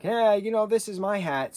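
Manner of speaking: high, loud mock complaint; protesting magician. Magician claiming back his hat, mock protest. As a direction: put on a high-pitched indignant magician. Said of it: "the magician's like".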